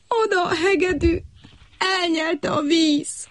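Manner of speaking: high, slow, tearful voice; sniffling lament. A narrator's reading. Little cricket mourning his violin, sniffling and tearful. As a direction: mourn the lost fiddle. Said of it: "egyre csak szipogott".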